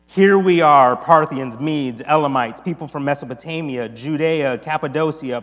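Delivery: projected reading of an amazed crowd; scripture reading. Acted. Reader voicing the crowd at Pentecost, projected. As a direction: proclaim it emphatically to the room. Reads the crowd's words aloud.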